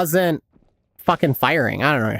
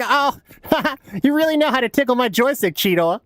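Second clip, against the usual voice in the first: mock Rat Trap; 7 semitones higher than usual. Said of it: "and he's like".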